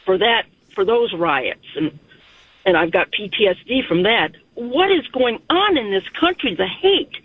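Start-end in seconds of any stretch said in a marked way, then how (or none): 4.5-7.2 real emotion welling up, pitch climbing high; getting emotional. Real, not acted. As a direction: voice pitched up high and slowing, overcome. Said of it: "Sorry, I'm getting emotional".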